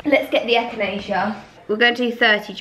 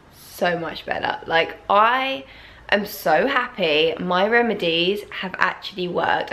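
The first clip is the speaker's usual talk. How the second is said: a subtle morning croak; just-woken croaky morning voice. Real, not acted. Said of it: "Please mind my morning voice".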